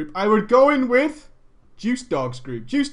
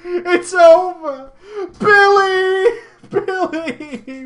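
higher, louder, slow fake sobbing; mock wailing; 8 semitones higher, 8 dB louder, much slower than usual. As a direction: wail dramatically at Billy. Mock wailing, loud high.

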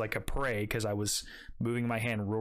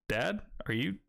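rising, higher and higher disbelief; incredulous question; 8 semitones higher than usual. Retold or imitated. Son asks dad if the snake is in the pool, rising disbelief. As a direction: ask dad in mounting disbelief.

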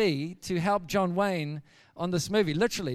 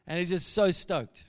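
ordinary delivery, nothing marked

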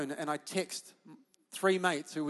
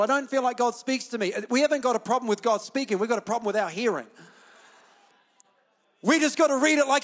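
raised, insistent preacher's voice; fired-up preaching; 5 semitones higher, 6 dB louder than usual. Real, not acted. Pastor urging the church to keep reading, fired-up preaching. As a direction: preach it with rising urgency.

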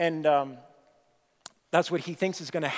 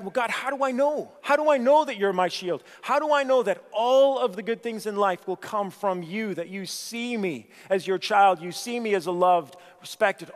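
loud, urgent questioning; Abraham pleading loudly with God; 4 semitones higher, 3 dB louder than usual. Acted. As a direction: press God for an answer. Preacher voices Abraham's doubt.

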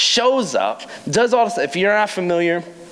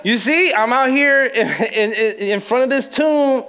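excited reporter; 6 semitones higher than usual. Acted. Acted social media post at tomb.

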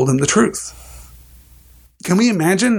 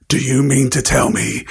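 growled. Acted. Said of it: "he growled at the Dursleys".

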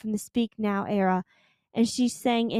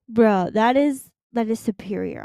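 excited; 5 dB louder than usual. Real, not acted. Raving about the set for an album.

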